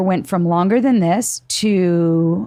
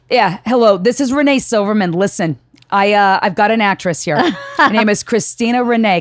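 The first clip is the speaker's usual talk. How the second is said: put-on New York accent; 2 semitones higher than usual. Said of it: "she sound like she's, like, a New Yorker".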